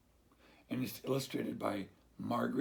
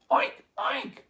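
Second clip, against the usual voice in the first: high, loud squealing oinks; crying piglet; 8 dB louder than usual. Acted. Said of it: "the soggy piglet cried".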